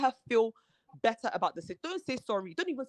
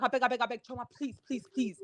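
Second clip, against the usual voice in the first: higher-pitched imitated begging; retold plea, pitched up; pleading; 4 semitones higher than usual. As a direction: mimic a friend's impatient "please, please". Retold plea brushing off the demand.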